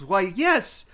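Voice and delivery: loud sarcastic gushing yes; over-the-top sarcastic acceptance; sarcastic mock delight. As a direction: fake enthusiasm dripping with disgust. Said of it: "all I can think of is".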